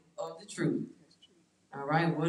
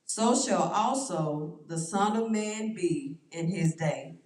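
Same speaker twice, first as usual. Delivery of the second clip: scripture reading. Acted. Pastor reading the lightning verse to the group, measured.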